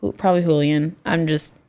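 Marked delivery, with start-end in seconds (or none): 0.4-1.0 "Julian" said as HOO-lee-un; Spanish J. Shown as a demonstration. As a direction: open "Julian" with an H sound. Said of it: "an H".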